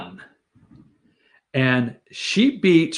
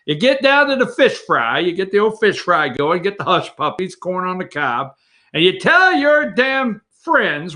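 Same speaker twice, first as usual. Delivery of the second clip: mock Pelosi ordering. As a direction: bark orders like a bossy boss, pitched up. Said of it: "And she says".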